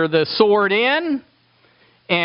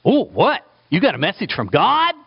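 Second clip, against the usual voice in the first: eager Eglon. Retold or imitated. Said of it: "fat Eglon is going".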